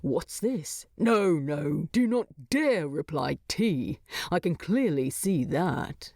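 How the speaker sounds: a gruff prisoner sneering at tea; Thorin, disgusted. Acted. Thorin voiced in story.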